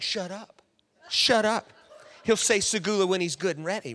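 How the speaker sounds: playful shut up with a laugh; laughing dismissal. Retold or imitated. Pam laughing off her friends' teasing. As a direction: brush them off, giggling. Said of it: "And Pam's like".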